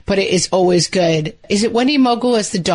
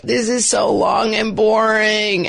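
put-on whining kid; 3 semitones higher, slower than usual. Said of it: "everyone's like".

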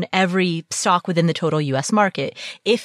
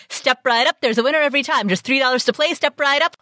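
carnival barker; 5 semitones higher than usual. Retold or imitated. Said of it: "be like".

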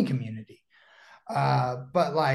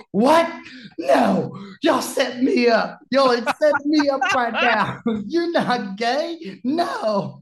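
much higher and louder, shocked yelp; stunned disbelief; 9 semitones higher, 6 dB louder, slower than usual. Retold or imitated. Bobby learns the narrator is gay, in loud shocked disbelief. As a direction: act like you've just been pranked.

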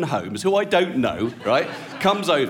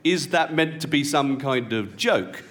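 slow, deliberate mock disapproval; icy indignation; slower than usual. Offended wife repeating her challenge, slow and icy. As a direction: imitate an offended wife, spacing out the words. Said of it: "she looks absolute daggers at me".

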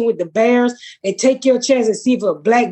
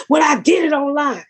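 retold yell; 4 semitones higher than usual. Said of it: "he was just yelling at her".

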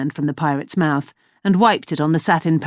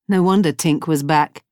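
ordinary delivery, nothing marked

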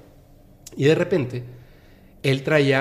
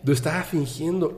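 higher, laughing through it; laughing confession; 5 semitones higher, 5 dB louder, slower than usual. Retold or imitated. Man laughs to compadre that he faked it. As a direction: chuckle while admitting the trick.

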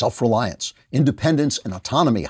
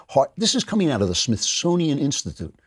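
normal talking voice

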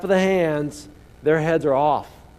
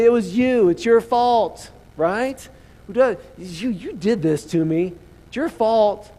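high, loud finger-pointing blame; hammed-up accusing your neighbour; loud mock blame; mock accusation; 6 semitones higher, 4 dB louder, slower than usual.

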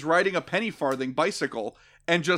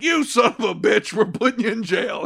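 mock sheriff shout; 5 semitones higher, 4 dB louder than usual. Sheriff voiced catching villain.

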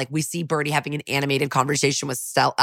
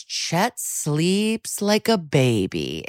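creepy quote; much slower than usual. Retold or imitated. Retelling creepy aunt line.

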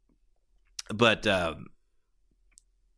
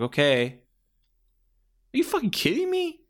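incredulous ref; 12 semitones higher, slower than usual. Retold or imitated. Ref throws hands up at the wrestler, stretched high disbelief. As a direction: voice shoots way up, slow and stretched in disbelief. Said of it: "throws his hands up like".

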